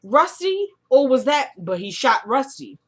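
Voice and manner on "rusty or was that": stunned disbelief. Retold or imitated. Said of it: "I was like".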